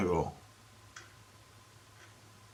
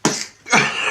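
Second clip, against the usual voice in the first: imitated choking noise; 11 semitones higher, 3 dB louder than usual. Imitates the sound she made.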